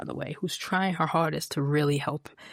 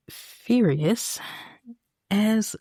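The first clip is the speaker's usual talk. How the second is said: louder, higher, fed up; loud, fed-up sigh of a line; exasperated; 5 semitones higher, 4 dB louder, much slower than usual. Real, not acted. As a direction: roll your eyes through it. Exasperated about Kevin.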